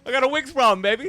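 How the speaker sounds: put-on high, loud old-timey gangster; a nasal 1930s tough guy, see.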